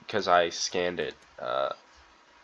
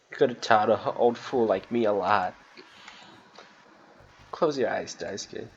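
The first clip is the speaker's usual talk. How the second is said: understated gruff-hearted farewell; measured, regretful old-timer reading; lightly voiced weary old workman. Old Swansea bidding dying Daisuke goodbye, understated regret.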